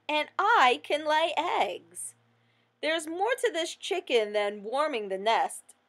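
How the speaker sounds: a grumbling hen who feels cheated; chicken complaining. Acted.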